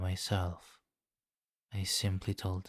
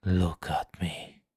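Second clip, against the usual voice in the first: slow, louder commanding order; a vampire king demanding his captive's gaze; stern command; 5 dB louder, slower than usual. Acted. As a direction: make her obey, slow and heavy.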